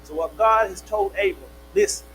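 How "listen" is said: calling out. Acted. God calling Abram.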